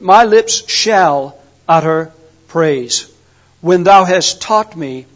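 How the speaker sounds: slow, savoring. Shown as a demonstration. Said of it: "this man is looking forward to it".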